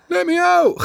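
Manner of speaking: high squeaky little voice calling from inside; squeaky trapped twin. Retold or imitated. Twin brother calling from inside his stomach, high and squeaky.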